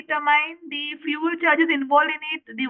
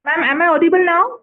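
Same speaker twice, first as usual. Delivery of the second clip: speaking up; 2 semitones higher, 7 dB louder than usual. Real, not acted. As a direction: raise the voice so the listener can hear. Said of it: "Yes, yes, you are audible".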